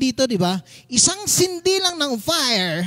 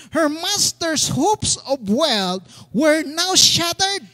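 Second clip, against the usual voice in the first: slow, emphatic reading; scripture reading; 3 semitones higher, much slower than usual. A narrator's reading. Pastor reading verse nineteen, slow and emphatic. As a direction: declaim it word by word.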